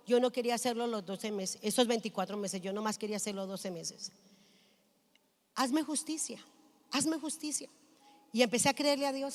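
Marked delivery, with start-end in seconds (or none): 0.1-4.1 soft, low retold prayer; quiet pleading prayer. Woman retells pleading with God about her contract, soft and low. 5.5-7.7 soft, repeated prayer for justice; quiet plea. Retold or imitated. Woman retells begging God for justice, softly pleading.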